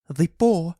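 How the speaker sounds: high, loud sudden cry. A narrator's reading. Wife suddenly remembers the paw, crying out high. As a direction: cry out in shock. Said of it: "she cried".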